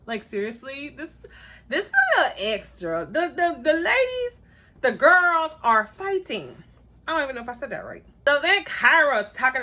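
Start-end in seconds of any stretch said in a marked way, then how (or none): 3.1-6.6 mock dramatic.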